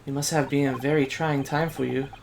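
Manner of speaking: put-on soft, lightly Asian-accented young assistant; restrained Asian accent, softly spoken; light Asian immigrant accent. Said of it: "like, an Asian immigrant".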